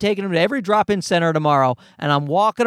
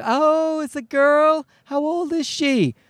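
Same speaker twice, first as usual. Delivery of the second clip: high-pitched, drawn-out imitation of a nosy stranger; cooing stranger; 8 semitones higher, slower than usual. Strangers asking about his baby son, cooing high. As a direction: mimic a stranger fussing over a baby, pitched up.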